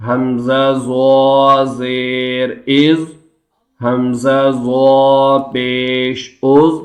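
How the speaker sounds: slow drawn-out chant for students to repeat; slow chanting teacher; recitation drill. Shown as a demonstration. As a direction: model each syllable slowly. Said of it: "اس کو کیسے پڑھیں گے".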